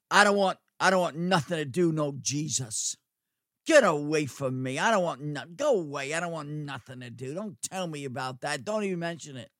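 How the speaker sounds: a hint of a resentful man pushing God away; hardened unbeliever. Preacher voicing a hardened sinner, defiant.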